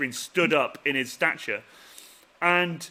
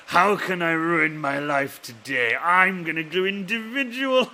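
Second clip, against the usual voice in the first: mock sadist friend; 3 dB louder, slower than usual. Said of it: "You were like".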